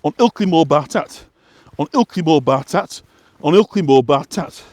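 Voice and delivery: repeated chorus in a light West Yorkshire dialect; mild West Yorkshire accent, each line rising. Shown as a demonstration. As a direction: chant the refrain like a local Yorkshireman. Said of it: "an authentic West Yorkshire".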